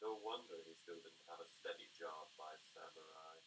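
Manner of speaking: Athena clip voice. Acted. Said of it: "Database Ranger as, as Ninja. I'm sorry, Athena".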